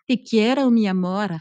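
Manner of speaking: light Spanish accent, words gliding together. Shown as a demonstration. Coach showing women the Spanish je t'aime, light Spanish accent. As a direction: let the Spanish glide smoothly. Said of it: "ça a un petit accent, là, ça glisse".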